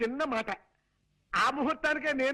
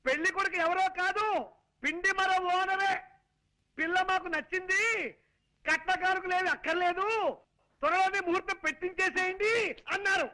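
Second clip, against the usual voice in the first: higher, worked-up telling of good news; overexcited announcement; 4 semitones higher than usual. Acted. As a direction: announce it with big flailing effort. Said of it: "ఇలా కాళ్ళు చేతులు ఊపుతూ హైరాణ పడాలా".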